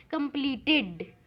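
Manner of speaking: "कंप्लीटेड" slowly, last syllable sounded out; "id" ending. Shown as a demonstration. Teacher tests the word for the class, "कंप्लीटेड" slow with an id ending. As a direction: draw out "कंप्लीटेड" to show its -ted syllable. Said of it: "इस पे भी आईडी का sound आ रहा है".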